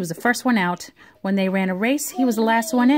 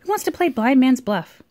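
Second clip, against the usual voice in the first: put-on children's voices; 4 semitones higher than usual. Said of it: "the children would say".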